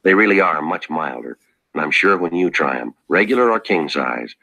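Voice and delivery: friendly sponsor pitch; ad read. Acted. Star pitching the sponsor's cigarettes to listeners, friendly and sincere. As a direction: sell it to the friends at home, sincere.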